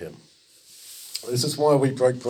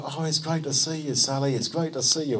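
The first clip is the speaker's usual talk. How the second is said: higher, delighted cooing; mock-gushing hello; gushing greeting; 4 semitones higher than usual. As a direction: act out a fussing welcome. Fussing crowd greets revived girl.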